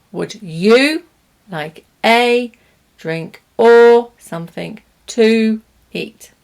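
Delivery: full vowels on "you", "a", "or", "to"; every small word clear and full; strong forms. Shown as a demonstration. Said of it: "Strong forms".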